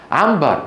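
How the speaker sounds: عنبر with the ن turned into m, untrained; natural mim pronunciation. Shown as a demonstration. Teacher shows students how people naturally say it, عنبر with mim. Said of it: "يقولها بالميم بالفطرة".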